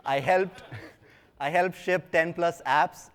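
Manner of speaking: laughing through the words, slowed down. Real, not acted. Speaker to audience, amused at his own exaggeration, laughing. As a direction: chuckle while admitting it, slowly.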